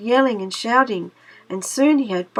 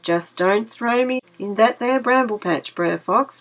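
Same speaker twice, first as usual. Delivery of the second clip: begging; 2 semitones higher than usual. Acted. Wily Brer Rabbit begging Brer Fox, mock pleading. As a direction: plead with fake fear. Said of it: "begged the wily rabbit".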